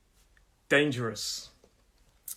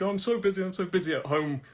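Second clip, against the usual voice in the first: mock-busy excuse, slightly higher; feigned busyness; 4 semitones higher, faster than usual. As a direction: pretend to be swamped. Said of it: "I pretend I'm doing".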